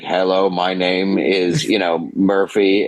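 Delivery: slow, stiff robot voice. Retold or imitated. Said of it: "he's trying to be a robot".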